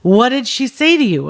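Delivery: mild mock exasperation; eye-rolling impatience. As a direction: roll your eyes and push the question. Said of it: "he rolls his eyes and goes".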